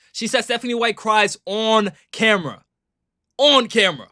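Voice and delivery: "on" stretched high, set off from camera; stress on "on". Shown as a demonstration. Streamer showing how Kelsey said it, stress on "on". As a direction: hammer the word "on", then repeat it. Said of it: "She's emphasizing on camera".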